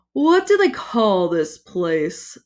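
slow, menacing fiery lord; menacing villain. Acted. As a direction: speak like a dark god.

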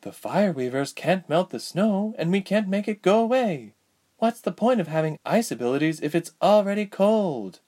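put-on high, exasperated girl's voice; impatient older sister. A narrator's reading. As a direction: explain impatiently to a little brother. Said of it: "rolling her eyes impatiently".

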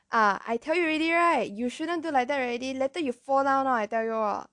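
mock I-told-you-so scolding; scolding Asian parents. Asian parent to fallen child, mock scolding. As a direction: imitate a nagging parent, starting high and loud. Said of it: "But for Asian parents, it would be like".

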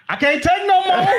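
high, strained mock despair; hammed-up fed-up voice; exasperated complainer. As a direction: play someone at the end of their rope. Acting out exasperated person.

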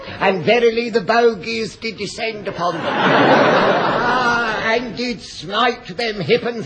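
mock sermon. Mock preacher sermon sketch.

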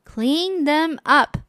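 slow, firm mother spelling it out; firm slow order. Acted. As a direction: mom putting her foot down, slowly. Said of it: "said the mother".

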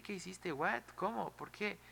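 high-pitched rapid-fire mock astonishment; baffled disbelief. Afrodita finds the impossible task done, acted high-pitched bafflement.

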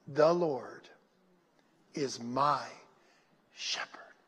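low, widely paused phrases fading to a whisper; soft meditative mutter. Shown as a demonstration. Preacher showing the church how to meditate, soft muttering. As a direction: mutter it slowly under your breath. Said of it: "say it softly and you mutter it out".

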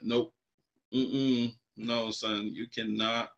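a hushed, firm dad no; quiet firm no. Retold or imitated. Father refuses son firmly.

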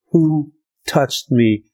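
slow, searching question; a slow question from Jesus. Retold or imitated. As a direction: ask slowly, as if you felt it. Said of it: "And Jesus said".

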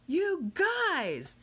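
high, loud call to the crowd; excited shout. Acted. Miguel calling to the crowd, excited shout. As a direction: shout it out to the fans. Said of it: "Miguel shouted".

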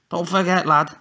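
Tommy warning the lad to pay up; menacing reminder. A narrator's reading. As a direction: lean on each word as a threat.

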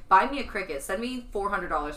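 a loud begging demand. Real, not acted. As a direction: demand it from the audience. Loud plea to listeners.

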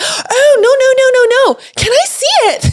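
high, loud mock-excited outburst; eager protest. Reassuring the apologetic traveller and asking to see, eagerly. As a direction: act out a bursting, high-pitched plea. Eager reply acted in retold story.

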